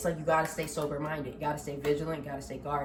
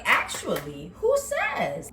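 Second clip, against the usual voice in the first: mock realization; 3 dB louder, much slower than usual. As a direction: act out the lightbulb moment.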